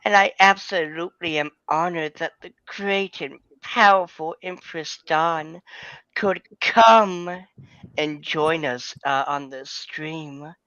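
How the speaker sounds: lightly voiced cat character; a hint of a purring cat. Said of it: "might as well do this in my cat impression".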